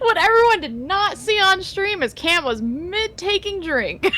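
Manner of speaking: talking through laughter; words bubbling with laughter; laughing. Real, not acted. Laughing hard while telling it.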